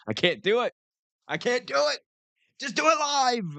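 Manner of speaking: high, frantic mock meltdown; imitating a TV host losing it on air; Bill O'Reilly rant. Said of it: "I'm like Bill O'Reilly in that clip".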